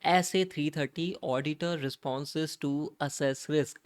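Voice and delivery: very slow, each word drawn out; spelling out the chapter title at a slow, deliberate pace; slow title read. Shown as a demonstration. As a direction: announce the topic like a headline, stretching it. Teacher announces standard title.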